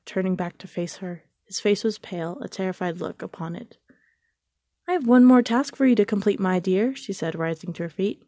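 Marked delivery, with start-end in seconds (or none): 4.9-7.0 high, imperious queen's command; lightly voiced wicked queen giving orders. A narrator's reading. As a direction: order it with cold pleasure. Queen gives huntsman a task.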